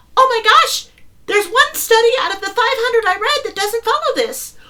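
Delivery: very high, loud, goofy put-on silly voice. Coaching listeners to mock a worrying thought, repeating it in a silly voice. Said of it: "repeat whatever the message is in a silly voice".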